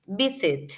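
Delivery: VI-sit, falling; stress on first syllable. Shown as a demonstration. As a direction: lean on VI in Visit, drop the end. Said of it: "Es como si empezaras alto".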